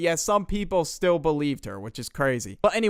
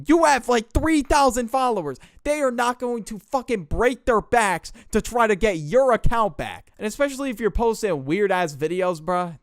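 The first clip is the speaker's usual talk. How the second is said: higher, louder scoffing; loud scoffing rant; 8 semitones higher, 5 dB louder than usual. Real, not acted. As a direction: scoff hard at her follower count. Narrator mocks the girl.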